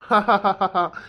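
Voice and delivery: short laugh of relief; happy laugh. Acted. Husband thanking the doctor, laughing happily. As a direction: laugh out the joy.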